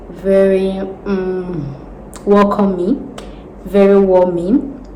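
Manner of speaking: soft and welcoming. Shown as a demonstration. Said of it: "you have to sound very soft".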